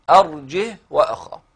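أرجه with no hamza and the ha silent, ending on a stopped h; Shu'ba's reading. Shown as a demonstration. Teacher models Shu'ba's reading with a silent ha. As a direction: say أرجه وأخاه with a sukun on the ha. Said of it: "إذن يقرأها كده".

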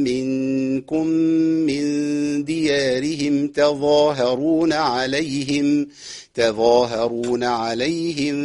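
slow, drawn-out chanted recitation; Quran recitation. Acted. Teacher recites the verse for the class. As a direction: stretch the long vowels slowly.

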